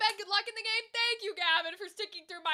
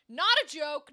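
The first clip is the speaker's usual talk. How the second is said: louder, dead-serious insistence; mock firm insistence; 9 dB louder than usual. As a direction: hit NOT, no joking. Threat in retold Laertes warning.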